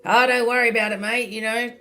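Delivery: imitating a broad Aussie mate, lightly; friendly broad Australian accent, reassuring; a touch of a broad Australian bloke. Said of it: "he's very Australian, so he would say to me".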